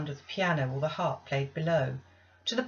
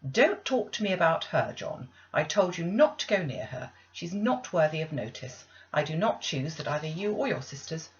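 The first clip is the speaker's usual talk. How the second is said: stern, cold scolding of a mother to her son; a touch of sharpness, cutting him off; harsh rebuke. Acted. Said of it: "He was stopped rather harshly".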